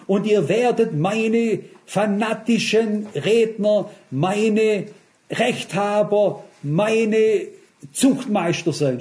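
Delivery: slow, drawn-out sarcastic emphasis on meine; slow mocking misquote. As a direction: parody a zealot twisting the verse. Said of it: "So geht der Gläubige manchmal vor".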